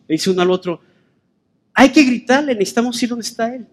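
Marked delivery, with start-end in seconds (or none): 1.7-3.7 higher-pitched, mildly urgent exhortation; urgent urging. Acted. One blind man urging the other to call Jesus, urgent. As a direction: urge a companion, voice lifted.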